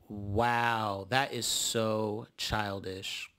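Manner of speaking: low, soft, slow disdain; unimpressed. Real, not acted. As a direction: let it drip with disapproval, slowly. Narrator's disapproving reaction.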